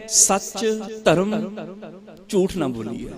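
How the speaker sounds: slow, drawn-out recitation of the verse; recited scripture line. Shown as a demonstration. Preacher reciting a verse to the congregation, slow chant. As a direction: intone ਬੋਲੀ ਹੈ ਸੱਚ very slowly, like a chant. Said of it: "ਉਦਾਹਰਨ ਦੇ ਤੌਰ ਤੇ ਮੈਂ ਇੱਕ ਤੁਕ ਬੋਲੀ".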